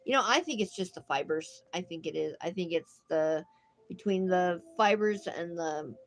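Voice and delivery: talking through a blocked nose; congested, stuffed-up voice; stuffy nose. Real, not acted. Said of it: "here I am stuffed up again".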